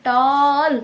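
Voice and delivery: ଟଲ୍ stretched into one long vowel; drawn-out word. Shown as a demonstration. Teacher showing how tall is not said, ଟଲ୍ stretched long. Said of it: "ସେମିତି ତ ତମେ ଟଲ୍କୁ ଆଉ କହିବ କି".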